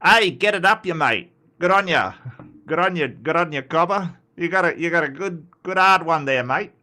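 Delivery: lightly hammed-up broad Australian accent; ocker Australian greetings. Shown as a demonstration. Australian showing off colourful greetings to viewers, ocker. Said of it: "The Australian greetings".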